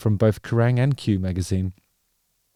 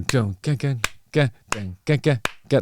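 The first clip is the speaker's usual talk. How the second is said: wrong clap rhythm. Shown as a demonstration. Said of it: "That's awful".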